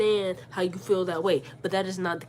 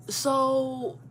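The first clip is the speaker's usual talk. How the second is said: higher, drawn-out questioning, item by item; pointed argument; 4 semitones higher, slower than usual. Retold or imitated. Daughter imagines challenging her mother's logic, pointed and deliberate. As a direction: lay out the case with leading pauses.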